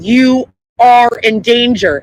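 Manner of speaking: slow, even robot announcement. Retold or imitated. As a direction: say it like a machine on a loudspeaker. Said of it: "it's like a robot voice".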